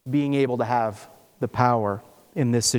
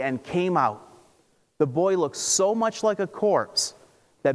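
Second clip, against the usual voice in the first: scripture reading. Acted. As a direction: read the passage aloud to the congregation. Reads the Bible passage aloud.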